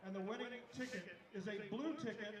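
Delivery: raffle caller. Real, not acted. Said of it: "PA announcer reads raffle winners".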